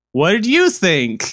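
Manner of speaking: slow, drawn-out mock YouTuber plea; mocking imitation. Podcaster parodies YouTubers begging viewers for comments, mocking imitation. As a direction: stretch it out to parody a video sign-off.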